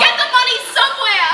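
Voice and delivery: loud, defiant cry; angry shout. Acted. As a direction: throw it at him in anger. Heated family quarrel.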